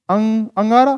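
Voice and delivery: अंग, अंगारा with a clear ng; short vowel into ng on अंग; anusvara demo. Shown as a demonstration. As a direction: sound the ng fully in अंगारा. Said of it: "इसका होता है अंग".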